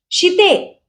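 शिते called high and sharp; shouting her name. Acted. Visu shouts at Shitu while hitting her back. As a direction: yell शिते as you strike. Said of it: "विसू ओरडला".

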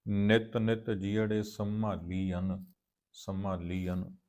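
measured, drawn-out chanting of gurbani lines; slow scripture recitation. Acted. Teacher recites the hymn slowly for the students. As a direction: recite each line slowly with reverence.

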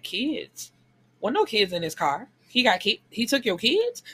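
acted disbelief, rising at each question; startled questioning. Bystander learning kids were taken, acted startled questioning. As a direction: voice the bystander's dawning alarm, pitch climbing.

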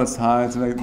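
mildly droning donut man; uninspired monotone. Retold or imitated. Teacher imitating the donut man, understated monotone. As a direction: keep it level and uninspired. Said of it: "And it's, like, a monotone".

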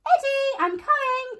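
high, loud urgent call. A narrator's reading. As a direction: call out to a child far off. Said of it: "called Mum".

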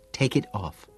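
curt. A narrator's reading. Woman ordering her lover, curt. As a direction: say it short and impatient. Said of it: "she says curtly".

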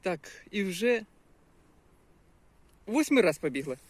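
panting words while jogging; breathless from running; out of breath. Real, not acted. Vlogger jogging, talking to camera, out of breath.

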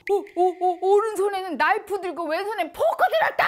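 high, loud laughing shout; trance shout. Retold or imitated. The possessed novice shouts what the spirit holds, high loud laughing shout. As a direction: cry out a vision, laughing. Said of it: "이렇게 소리를 치는 거예요".

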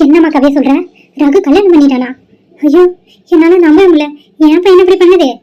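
can't take it in, let it burst out; a mother crying out in disbelief at her son's marriage; shocked disbelief. Acted. Mother reels at the news.

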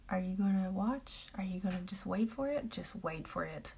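soft whispered tease; teasing whisper. Real, not acted. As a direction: whisper the question playfully. Teasing a named viewer.

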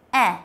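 À with the mouth open like a while saying e; flat æ vowel. Shown as a demonstration. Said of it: "bạn để mồm như chữ a nhưng mà đọc là e".

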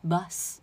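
bus with a short "uh" and clean hissed s; neutral vowel. Shown as a demonstration. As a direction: model bus as "buhs", no open ah. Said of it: "是b a bus".

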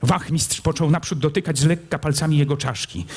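usual speaking voice

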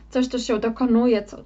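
talking through hiccups; words broken by hiccups. Real, not acted. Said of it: "mam czkawkę akurat na barana".

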